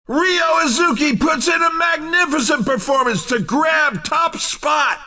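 high-pitched, punchy victory commentary; excited winner call. Acted. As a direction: hype up the race winner. Announcer celebrates a first place.

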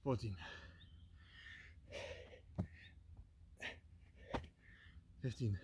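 breathless counting between burpees. Real, not acted. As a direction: count reps, winded and quiet. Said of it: "crank out a few burpees".

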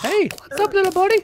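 very high, squeaky-cute teasing voice; mock-cute greeting. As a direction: greet it way up high, like a tiny pet. Teasing greeting to a small enemy.

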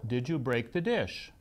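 "dish" lifted at the end, non-accusing; rising question on "dish". Retold or imitated. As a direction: ask gently, voice going up on "dish". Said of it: "intentionally went up at the end".

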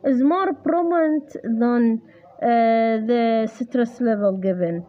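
very slow dictation pace; slow reading aloud. Shown as a demonstration. Tutor rereading the textbook line for the student. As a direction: read the English line word by word. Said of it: "rereads textbook line slowly".

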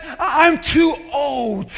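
slow, loud moan; quoting Naomi. Retold or imitated. Preacher quoting Naomi's poor self-image, slow loud moan. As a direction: drag out a self-pitying cry. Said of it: "And then she says".

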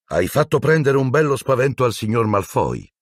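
high, far character voice with dry amusement; Lupin. Acted. Lupin showing Harry the fake dementors, dry amusement. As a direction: tease lightly.

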